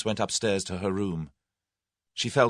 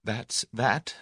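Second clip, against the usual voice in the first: sternly; 3 semitones higher than usual. Acted. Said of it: "she observed sternly".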